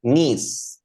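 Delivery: "niece" said as one syllable with a long ee; correct pronunciation. Shown as a demonstration. Teacher correcting José's reading, "niece" modeled with a long ee. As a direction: model "niece" clearly, rhyming with "piece". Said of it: "This is pronounced niece".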